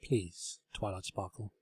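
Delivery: hushed hopeful request; soft pleading table. A narrator's reading. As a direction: beg gently.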